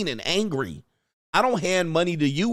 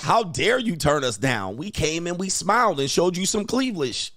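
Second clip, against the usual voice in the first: higher-pitched, drawn-out mock outrage; mock indignation; 5 semitones higher, slower than usual. Host voices women turned down, mock indignant. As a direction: act offended, climbing higher as it goes.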